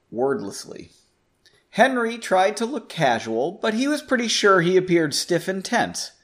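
steady storyteller reading a chapter aloud; story narration. A narrator's reading. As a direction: tell the heist tale to the listeners. Narration resumes.

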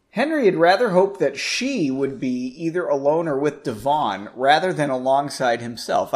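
steady storyteller reading a chapter aloud; story narration. A narrator's reading. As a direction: tell the heist tale to the listeners. Rereads narration line.

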